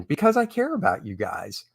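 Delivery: a soft, breathy whispered aside; a secret whispered to the audience. Real, not acted. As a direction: lean in and whisper it to the viewers. Teasing aside to viewers.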